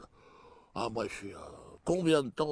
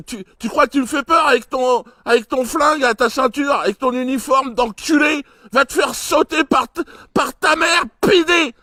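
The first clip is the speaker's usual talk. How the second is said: much higher, much louder furious shouting; angry tirade; 13 semitones higher, 13 dB louder than usual. Retold or imitated. Friend's imagined rant at the cop, furious shout. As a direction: explode at the cop, building to a scream. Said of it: "j'étais énervé".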